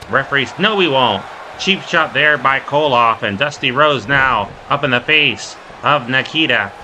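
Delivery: quick, punchy wrestling commentary; live play-by-play. Real, not acted. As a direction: call each move as it happens.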